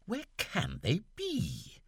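can pushed up high, slow; Where can they be, with can stressed. Acted. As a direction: lean on can. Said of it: "with a strong accent on the auxiliary verb".

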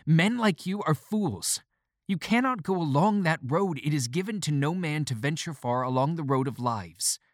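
lecturing in heated scorn; shrill warning, easing at the end. A narrator's reading. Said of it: "my voice became shrill".

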